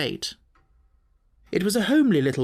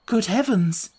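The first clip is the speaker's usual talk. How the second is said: a touch of shocked surprise, lifted; mild alarmed cry; 5 semitones higher than usual. Acted. Miss Stoner hearing her stepfather followed her, mildly shocked. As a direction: gasp it out, mildly startled. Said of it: "she cried".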